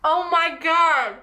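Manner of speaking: high laughing excitement; giddy, breathless joy; excited laughing. Real, not acted. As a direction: gush it out through laughter. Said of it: "I'm so excited".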